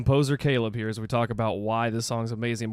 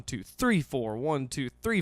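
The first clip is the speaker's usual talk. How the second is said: "three" lifted and leaned on in each count; counting aloud with each "three" rising; stress on three; 3 dB quieter, slower than usual. Shown as a demonstration. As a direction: lean into every "three" while counting. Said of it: "by placing the emphasis on the third beat".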